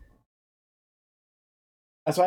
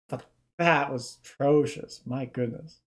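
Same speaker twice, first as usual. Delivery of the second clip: laughing. Real, not acted. Laughing at own awful accent.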